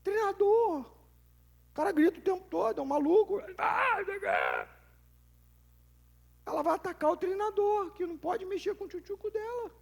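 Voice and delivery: high, loud outraged mother complaining about the coach; mock-outraged mother, pitched high and loud; indignant parent. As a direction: rant like a mom defending her kid. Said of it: "gente com raiva do treinador".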